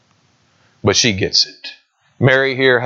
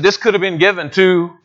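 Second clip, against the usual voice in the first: mimicking disciples; 6 semitones higher than usual. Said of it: "They said".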